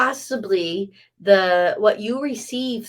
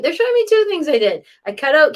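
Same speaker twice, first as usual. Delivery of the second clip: excited rush; 8 semitones higher, 8 dB louder, faster than usual. Real, not acted. Sudden eager jump.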